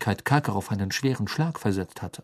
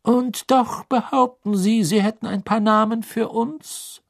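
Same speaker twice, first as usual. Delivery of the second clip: strenger Beamter, hoch und laut; kühl fordernd verhören; Crouch; 11 semitones higher, 4 dB louder than usual. Acted. Crouch fragt nach. (Crouch fordert Karkaroff streng zum Reden auf)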